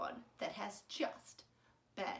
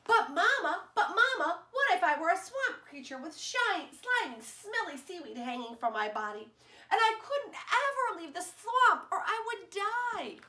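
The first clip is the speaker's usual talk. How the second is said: put-on giggling eager child; 6 semitones higher than usual. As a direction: plead with Mama through giggles.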